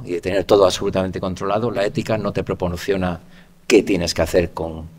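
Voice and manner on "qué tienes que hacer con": "qué" stressed on the E as a question word, said slowly; slow, weighted "qué" as a question. Shown as a demonstration. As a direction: lean on "qué" with the accent on the E, slow. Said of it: "con acento en la E".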